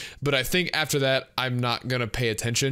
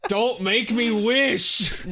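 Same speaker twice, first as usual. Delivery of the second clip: laughing; 7 semitones higher, much slower than usual. Real, not acted. Laughing plea.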